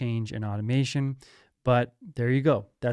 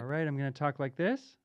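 softer and faster, run through an EQ; EQ-filtered voice; 2 semitones higher, 7 dB quieter, faster than usual. Shown as a demonstration. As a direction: talk as the filter shapes the sound. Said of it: "dip to a little bit more bassy".

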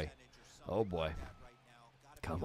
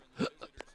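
hiccup gasp. Real, not acted. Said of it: "I'm getting the hiccups".

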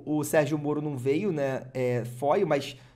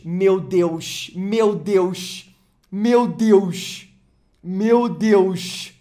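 rising, louder oh my God; excited; 3 semitones higher, 8 dB louder, much slower than usual. Real, not acted. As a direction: build up in disbelief. Reveal of a rare card.

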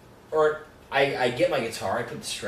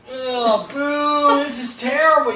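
mock booing crowd; 11 semitones higher, 6 dB louder, slower than usual. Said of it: "everybody's like".

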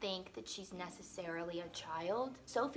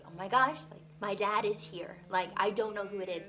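excited; 6 dB louder than usual. Retold or imitated. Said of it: "and she's like".

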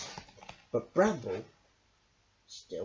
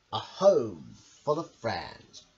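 announcing title; 5 semitones lower, 4 dB louder, slower than usual. Shown as a demonstration. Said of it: "today's story is called".

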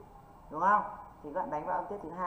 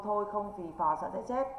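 reciting the mnemonic; 3 semitones higher than usual. Shown as a demonstration. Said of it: "em phải thuộc cho cô cái câu".

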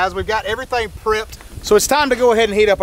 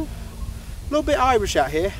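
attempted Irish accent; 4 semitones higher, slower than usual. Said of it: "That was British, wasn't it?".

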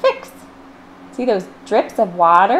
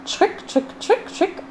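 soft, whispered high trick trick; whispered scraping sound; 11 semitones higher, 5 dB quieter than usual. Acted. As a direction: whisper it like a knife on toast. Imitating a knife on toast.

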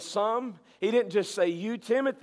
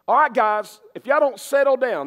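louder, firm classroom warning; teacher calming a class; 2 semitones higher, 5 dB louder than usual. Retold or imitated. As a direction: call the kids to order like a teacher. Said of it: "But if you're a teacher in class".

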